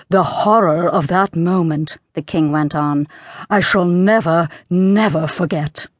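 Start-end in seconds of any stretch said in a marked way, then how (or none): 0.1-2.0 slow, hushed horror; frightened whisper. A narrator's reading. King recalls his fright to Queen, frightened whisper. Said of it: "in a frightened whisper so low". 3.5-5.9 hushed, shaken, slowing at the end; frightened whisper. A narrator's reading. King vows to Queen, frightened whisper. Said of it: "in a frightened whisper so low".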